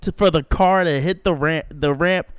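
outraged protest. Retold or imitated. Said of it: "I was like".

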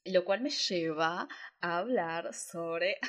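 slow, holding back a laugh; trying not to laugh. Real, not acted. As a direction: fight the giggle. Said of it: "Yo me río". (conteniendo la risa)

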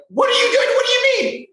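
high, loud startled "what are you doing"; a German friend freaked out, high and loud; alarmed friend. Retold or imitated. Friend freaked out by the call, startled and loud.

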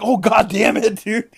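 high, loud mock exasperation; retold exasperated yell. Player called back from the bathroom, exasperated yell. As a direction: act out being rudely interrupted.

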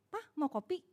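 soft, gentle offer of coffee; lembut menawarkan. Shown as a demonstration. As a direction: ask it softly, with a little care. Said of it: "Apa gini". (menawarkan kopi dengan lembut)

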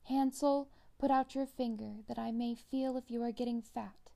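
witch calling Hansel to show his finger. A narrator's reading.

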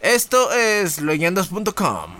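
talking with a swollen cheek; after wisdom teeth. Real, not acted. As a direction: speak around sore, swollen gums. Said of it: "tengo un lado inflamado porque me quitaron las muelas del juicio".

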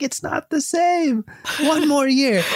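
high, drawn-out mock whine; crying kid. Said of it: "he's crying and he's bawling".

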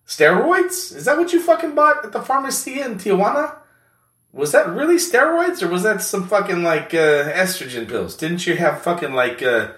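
squeaky high teasing friend, loud at the start; high-pitched mocking buddy. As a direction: play a rowdy buddy ribbing his pal in a voice well above your own. Second character ribs his pal.

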